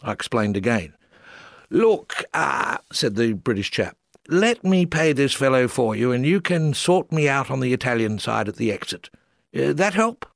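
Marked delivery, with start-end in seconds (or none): 1.7-10.2 higher, plummy English squire voice; British chap offering to pay, posh English voice, higher. Retold or imitated. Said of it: "sounding like a squire".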